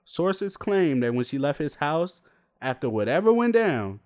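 mock news anchor read; lightly played newscaster reporting a scandal. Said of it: "my newscaster voice in".

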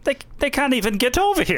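high-pitched mock Hitler with German accent. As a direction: scoff in a lightly hammed German accent. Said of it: "that's a German accent".

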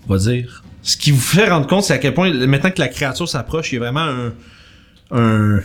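description d'ambiance posée, un peu dramatique; narration de maître du jeu. A narrator's reading. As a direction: poser la scène pour les joueurs. GM describes the creature's stench. (le MJ décrit l'odeur de mort aux joueurs, ton de narrateur)

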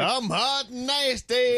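kitten voice. Retold or imitated. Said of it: "did you like it?".

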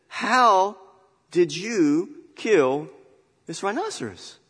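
high, slow, amazed question; a touch of amazed onlooker; curious man. Acted. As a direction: ask in wonder. Man asks lion cub.

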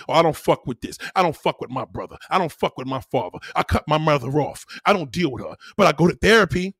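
lightly mimicked low-voiced complainer; low, mocking list of cut-offs; mock older woman. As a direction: drop the pitch and recite her grievances. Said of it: "It's only the older one".

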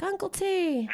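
high, excited puppy voice; excited dog voice. Pretend. Dog's excited greeting voiced.

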